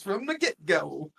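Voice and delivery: light country twang on "get-go"; imitated country accent. Amused by Shauna's phrase, lightly country accent. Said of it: "she said it just like that".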